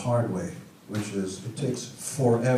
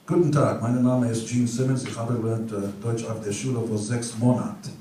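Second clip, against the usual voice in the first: German phrases. Shown as a demonstration. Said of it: "How's my accent?".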